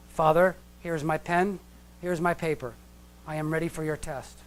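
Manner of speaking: put-on stiff formal child. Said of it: "Mm, very different, right?".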